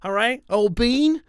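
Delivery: hammed-up British accent; mock British toff. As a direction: tip your hat like a London gent. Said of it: "talk like that the rest of the episode".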